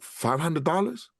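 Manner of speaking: slow, rising disbelief at the sum; mild retold astonishment; amazed question. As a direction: stretch it out like you can't believe it. Stunned by the money offered.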